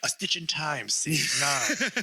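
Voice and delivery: measured, mock-wise proverb reciting; mock-profound narrator; cliché narration parody. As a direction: recite it like trite voiceover wisdom. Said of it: "Just one cliche after another".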